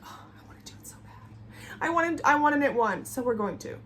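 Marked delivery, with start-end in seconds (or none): 0.0-1.8 whispered craving; longing whisper. Retold or imitated. Watching cable videos, whispering her craving. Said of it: "and I'm like". 1.8-3.0 eager outburst. Retold or imitated. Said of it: "and I'm like".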